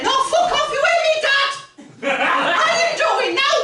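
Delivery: sulky Northern lad shouting back; Northern Luke. Acted. Comic Northern Star Wars Luke, Mancunian. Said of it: "he's not supposed to be Mancunian".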